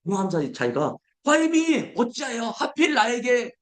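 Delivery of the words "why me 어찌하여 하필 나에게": high whiny complaint; high, slow grumble; grumbling why me. Pretend. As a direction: whine it out. Voicing the complainers.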